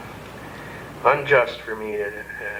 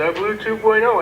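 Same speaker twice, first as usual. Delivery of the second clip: put-on higher, sheepish drunk voice; tipsy inmate; 8 semitones higher, 3 dB louder than usual. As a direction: play the tipsy lad.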